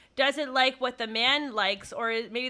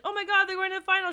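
mock excited fan; 7 semitones higher, much faster than usual. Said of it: "he's like".

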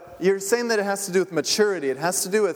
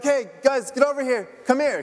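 raised, higher call across the room; mock yell; 6 semitones higher than usual. Pastor calling his sons from across the stage, mock yell. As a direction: call the kids over, half-shouting. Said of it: "yell to them and be like".

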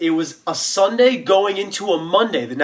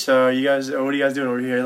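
hint of a Boston-accented cop; police officer with a light Boston accent. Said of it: "like, a Boston accent or some shit".

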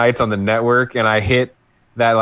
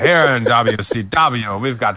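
wrestling announcer voice; 2 semitones lower than usual. Retold or imitated. Voicing the commentator's boast.

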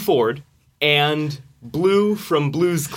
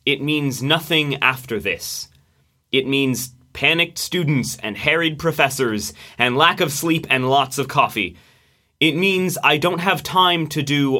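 poem reading. Acted. Reads his poem aloud.

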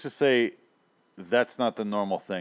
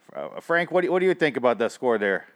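higher, hammed-up Chicago sports fan; mock Chicago accent; 4 semitones higher, 4 dB louder than usual. Fan asking his buddy, higher mock Chicago accent. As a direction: put the question in a Chicago accent. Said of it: "pulling that accent out".

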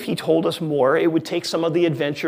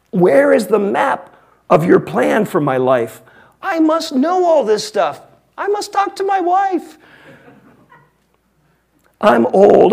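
put-on loud, high, fretful old Abraham pleading; anxious Abraham; 5 semitones higher, 8 dB louder than usual. Abraham protesting loudly to God about vague instructions, fretful and high. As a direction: whine at God like a worried old man. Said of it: "Abraham responding something like this".

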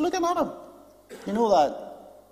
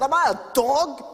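mock-indignant protest, pitched up; acting out an offended king; a touch of outraged disbelief; 4 semitones higher than usual. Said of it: "And Jeroboam was indignant".

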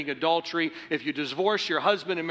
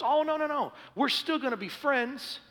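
put-on flippant young woman; 11 semitones higher than usual. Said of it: "And she goes".

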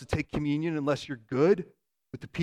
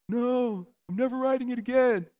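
put-on pitched-up sulky little boy; 8 semitones higher than usual. Dad imitating his crying son who refuses to ride again. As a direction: play the hurt kid refusing the bike.

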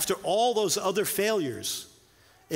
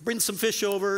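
breakfast invite, pitched much higher and bright; lightly voiced Jesus calling them to eat; a friendly, upbeat call to breakfast; cheerful invitation; 5 semitones higher than usual. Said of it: "Jesus says".

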